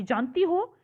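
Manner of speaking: lightly astonished question; surprised question. Shown as a demonstration. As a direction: demonstrate mild surprise, lifting "हो". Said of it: "यहाँ पे आश्चर्य की बात है".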